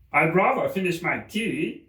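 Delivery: high, anxious voice; nervous Hatter. Acted. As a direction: explain timidly.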